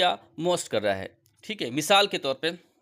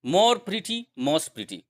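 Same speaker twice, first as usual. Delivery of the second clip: slow model phrase; 5 semitones higher, much slower than usual. Shown as a demonstration. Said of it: "more most का भी इस्तेमाल".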